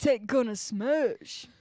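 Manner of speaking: slow, badly attempted Irish accent. Players failing at accents together, bad Irish. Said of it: "terrible at Scottish and Irish accents".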